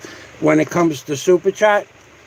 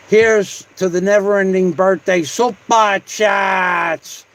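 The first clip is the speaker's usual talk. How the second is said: shouted toast; slower than usual. Real, not acted.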